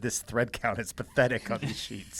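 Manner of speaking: a lightly voiced snooty monster under the bed; hint of a bougie monster voice; creepy playful under bed whisper. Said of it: "the voice from under the bed said".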